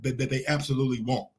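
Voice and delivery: ordinary delivery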